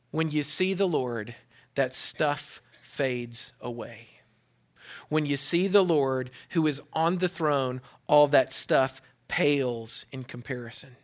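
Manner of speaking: soft pastoral hush; hushed preaching. Acted. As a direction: draw the church in close. Preacher drops to intimate hush.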